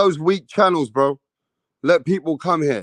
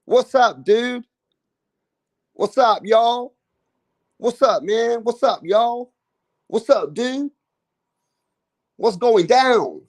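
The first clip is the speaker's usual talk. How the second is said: higher, surfer-dude American greeting; British vlogger imitating Americans; mock American accent; 6 semitones higher, slower than usual. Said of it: "I always hear in America".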